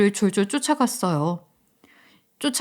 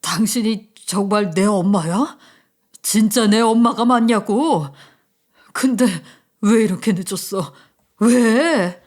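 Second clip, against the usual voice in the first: put-on crying like a child. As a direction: sob and reproach like a small boy. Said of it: "정말 아이처럼 울었죠". (아이처럼 울며 떼쓰는 아들)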